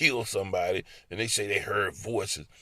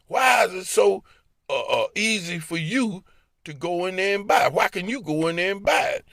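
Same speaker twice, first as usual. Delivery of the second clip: higher, heated rapid-fire questions; raised arguing; 4 semitones higher than usual. Retold or imitated. Husband arguing with his wife in the car, heated. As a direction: argue back hard.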